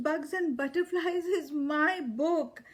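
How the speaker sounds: on the edge of tears over a lost book; upset. Acted. Lola upset her book is gone.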